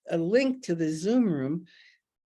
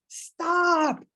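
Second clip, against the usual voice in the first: much higher, insistent protest; stubborn ego throwing a tantrum; 9 semitones higher than usual. Retold or imitated. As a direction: play the ego that insists it's right. Acting out flailing ego.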